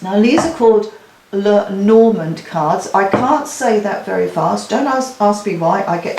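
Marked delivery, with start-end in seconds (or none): 1.3-2.9 slow, careful naming of Lenormand; drawn-out, careful pronunciation of a tricky name; said very slowly. Shown as a demonstration. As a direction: spell it out word by word, deliberately slow. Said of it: "so I'm gonna say it very, very slowly".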